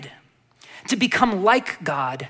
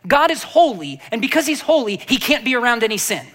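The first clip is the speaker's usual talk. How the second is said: mock teaching; 3 semitones higher, 3 dB louder than usual. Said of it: "teaching that says".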